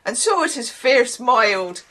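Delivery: not-quite-Irish lilt; attempted Irish accent. Shown as a demonstration. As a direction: have a bad go at an Irish accent. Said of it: "I can't really do Irish".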